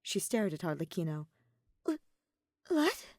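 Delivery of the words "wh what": high, stammered question; squeaky, rising disbelief; bewildered. A narrator's reading. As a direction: repeat it in blank confusion. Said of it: "face blank with bewilderment".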